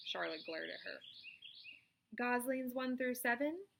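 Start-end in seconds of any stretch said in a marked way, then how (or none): 2.2-3.7 slow, raised calling voice; calling roll. Acted. Charlotte calls the goslings, slow and clear. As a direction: call out deliberately.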